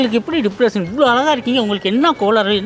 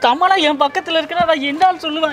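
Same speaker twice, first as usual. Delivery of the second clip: giddy fan; 5 semitones higher than usual. Acted. Overexcited fan gushing.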